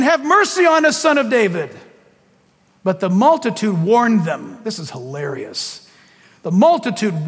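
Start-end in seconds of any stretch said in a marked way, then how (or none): 0.0-1.8 mildly raised plea; crying out. Acted. Blind men calling to Jesus, mild cry. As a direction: call out for mercy, slightly raised. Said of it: "they cried out saying".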